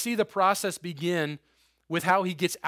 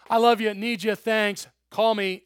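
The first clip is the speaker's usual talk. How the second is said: breezy mock; 4 semitones higher, 5 dB louder than usual. Mocking a shallow prayer.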